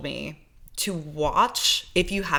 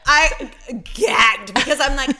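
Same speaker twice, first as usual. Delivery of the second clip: high, loud burst of excitement; excited shout; 7 semitones higher, 8 dB louder than usual. Real, not acted. To her co-host, gushing with excited shouts. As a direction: blurt it out, thrilled. Gushing about the actor's accent.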